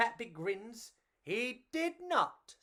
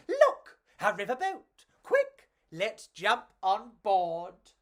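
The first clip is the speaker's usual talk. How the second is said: excited yell; 2 semitones higher, 6 dB louder than usual. Acted. Enrico yelling to his friend about the riverboat. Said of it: "Enrico yelled".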